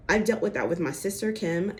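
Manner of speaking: a hint of Sutton's accent on a retold line. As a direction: slip lightly into Sutton's accent. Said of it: "I just slipped into Sutton's accent".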